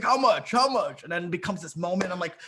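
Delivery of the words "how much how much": high, repeated eager question; mock eagerness. Coach mimicking guy haggling with bartender, mock eager. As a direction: imitate a pushy customer, pitched up.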